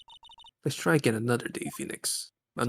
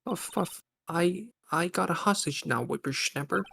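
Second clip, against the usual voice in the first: panting, a bit higher; winded old lady; 4 semitones higher than usual. Acted. Old lady gloating about her hostage, still panting. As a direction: puff between the words. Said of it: "without huffing and puffing".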